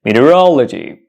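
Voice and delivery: "meteorology" said as mee-tee-uh-ROL-uh-jee; careful single "meteorology", falling at the end; correct pronunciation demo. Shown as a demonstration. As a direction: model "meteorology" with the stress on "rol". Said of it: "The correct pronunciation is".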